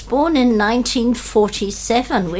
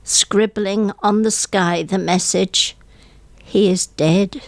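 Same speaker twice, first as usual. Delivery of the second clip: mournful poem reading. Acted. Guest on radio reads a funeral poem, hushed and mournful. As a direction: let each line fall like grief.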